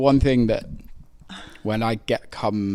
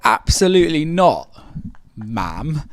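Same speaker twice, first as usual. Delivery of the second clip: retold indignation; 7 semitones higher, 7 dB louder, slower than usual. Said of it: "I'm like".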